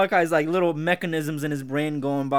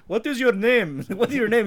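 put-on Arab accent; 6 semitones higher, 4 dB louder than usual. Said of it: "this Arab's like".

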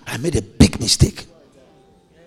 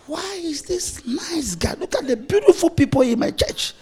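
retold question to wife; 12 semitones higher, 4 dB quieter than usual. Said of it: "So I asked my wife".

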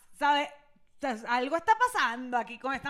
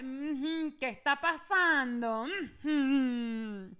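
knowing mom; 3 dB quieter, much slower than usual. Retold or imitated. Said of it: "mi mamá sabe".

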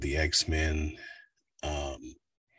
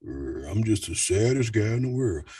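sad low voice; 3 semitones higher than usual. Shown as a demonstration. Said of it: "talk way down here".

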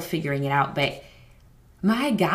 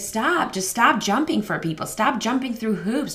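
imitated plea to stop, pitched up on "stop"; exasperated urging; 5 semitones higher than usual. Husband tells people-pleasing partner to stop, exasperated urging. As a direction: plead firmly, as if fed up on their behalf.

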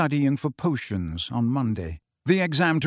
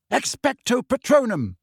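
spell cast; 10 semitones higher than usual. A narrator's reading. Harry casting spell at exam.

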